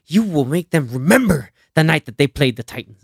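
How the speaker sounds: lightly voiced coach's battle cry; imitating a rousing speech. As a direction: deliver it like a coach firing up his team. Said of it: "the way he delivers the".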